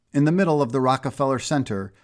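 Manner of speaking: usual speaking voice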